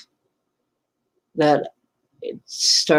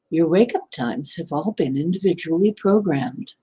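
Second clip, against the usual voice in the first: a light hint of a prim British machine voice, barely shifted; lightly mock a polite robotic announcer; snooty British AI voice. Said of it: "that snooty British voice".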